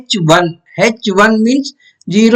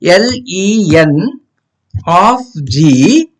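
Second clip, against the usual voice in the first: dictating; much slower than usual. Shown as a demonstration. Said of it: "here we write length of".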